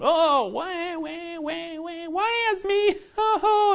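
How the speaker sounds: high, drawn-out self-pitying wail; mock pity-party whine. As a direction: whimper it in an exaggerated falsetto. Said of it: "having that little pity party".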